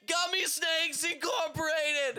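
yelled product name. Pretend. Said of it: "I like the yelling".

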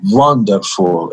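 put-on drawn-out word in a Hungarian accent; lightly voiced Hungarian-accented mother. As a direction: imitate mother's thick Hungarian accent, slowly. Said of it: "in her thick Hungarian accent".

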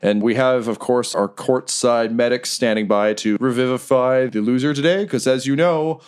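ring announcer. Acted. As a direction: savor the gory line like a showman. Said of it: "Riker gets back on the mic".

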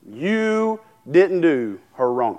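You didn't do her wrong, drawn out slowly with a fall on didn't; slow, weighty, each word set apart, hitting didn't; slow emphatic warning. Shown as a demonstration. Preacher warns anyone wronging his wife, slow and weighty. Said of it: "You could do me wrong all day".

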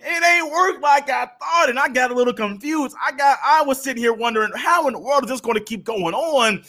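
put-on high, puzzled kid wondering aloud; confused teen. Teen puzzling over his failing relationship, confused. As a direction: sound lost and baffled like a kid in over his head.

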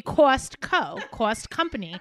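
"Costco" as "cawst-co", "cost" as "cawst"; Jersey vowel. Shown as a demonstration. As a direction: sound out "Costco" with an aw. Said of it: "how much does it cost".

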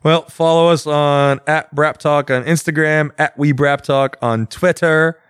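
put-on lightly German-accented slow plug. Host giving the podcast's social handles to listeners in a light German accent. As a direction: read the socials slowly in a hint of a German accent. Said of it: "I don't know why I went German".

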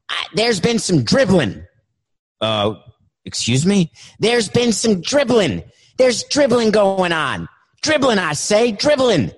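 high, insistent voice hammering dribbling; high, insistent caller. Acted.

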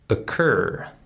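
"occur" starting on a weak "uh"; schwa for O. Shown as a demonstration. Teacher giving another example word, "occur" with a schwa start. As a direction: reduce the O of "occur", stress "cur". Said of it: "also the same schwa sound".

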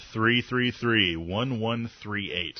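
carefully spaced digits, read for callers; slow and clear. Shown as a demonstration. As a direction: spell each digit out slowly. Reading out phone number slowly.

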